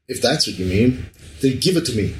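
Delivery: a light put-on Spanish accent, read aloud; hint of a Spanish gangster's accent; a lightly voiced Spanish accent on a novel's line; mock Spanish accent. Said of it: "I shouldn't be saying this in, like, Spanish accent".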